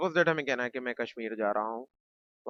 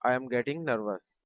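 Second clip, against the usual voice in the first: slow repeat; much slower than usual. Shown as a demonstration. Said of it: "teacher says then repeats slowly".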